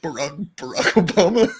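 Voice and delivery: light Obama voice; Obama impression. Podcaster demos Obama voice for friends. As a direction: say his name like Obama. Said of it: "the voice of Barack Obama".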